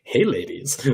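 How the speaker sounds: a hint of a cheesy pickup line; mock smooth talker. Shown as a demonstration. Joking about the wrong kind of smooth, mock suave. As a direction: lightly play the slick charmer. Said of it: "not really that kind of smooth".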